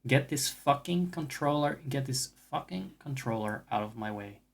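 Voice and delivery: mock-polite, gently stretched request; sweetly measured demand; nice way. Shown as a demonstration. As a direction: say it nicely, easing off at the end. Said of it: "say this in a nice way".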